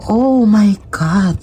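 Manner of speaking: a slow, high, drawn-out "oh my God"; shocked gasp. Real, not acted. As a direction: react as if the card just stunned you. (gulat na gulat, mabagal at mataas)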